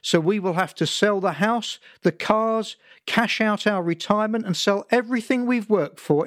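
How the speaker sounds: ranting father. Acted. Father lecturing son about insurance, building tirade. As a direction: pile it on, gathering steam to a rant. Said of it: "He was picking up steam again".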